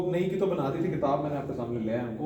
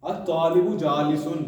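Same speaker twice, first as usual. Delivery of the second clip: slow model reading; 4 dB louder, slower than usual. Shown as a demonstration. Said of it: "teacher repeats model sentence".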